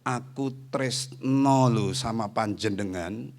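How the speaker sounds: slow, tender declaration of love; tender, heartfelt. Shown as a demonstration. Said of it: "kalau dia sudah ngomong gini". (pelan dan penuh perasaan)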